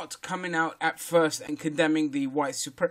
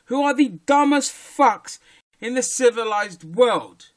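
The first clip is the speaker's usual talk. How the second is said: loud insult; 4 semitones higher, 6 dB louder than usual. Real, not acted. Insulting police in a rant.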